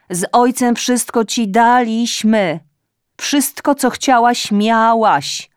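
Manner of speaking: loud, high nagging reproach; scolding mother. A narrator's reading. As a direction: lecture her like an indignant mother. Mother scolds daughter on phone. (matka głośno i z wyrzutem strofuje córkę)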